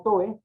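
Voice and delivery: toe said as one gliding syllable; run as a diphthong. Shown as a demonstration. Teacher showing the wrong reading, toe as a diphthong. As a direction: merge the o and e of toe. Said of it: "no tiene sentido".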